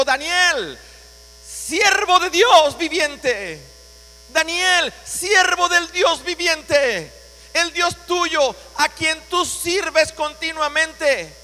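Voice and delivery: slow, loud, sorrowful calling to Daniel; sad calling out. Acted. King calling sadly into the lions' pit to Daniel, slow and loud. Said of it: "llamó a voces a Daniel con voz triste".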